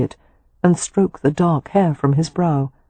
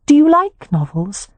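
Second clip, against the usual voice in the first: Poppy's voice; 10 semitones higher, 3 dB louder than usual. A narrator's reading. Poppy asks Harry.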